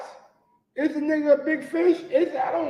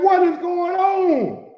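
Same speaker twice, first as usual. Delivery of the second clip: incredulous shout; 7 semitones higher, slower than usual. Retold or imitated. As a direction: shout it like you can't believe it. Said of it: "I'm like".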